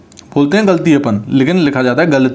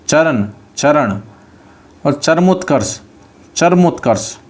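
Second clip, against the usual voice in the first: slow dictation. Shown as a demonstration. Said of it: "dictating a word slowly".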